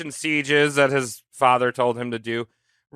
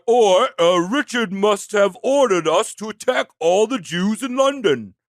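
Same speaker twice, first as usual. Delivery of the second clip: higher-pitched mock Cockney accent; 4 semitones higher than usual. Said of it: "a bunch of Cockney dickheads".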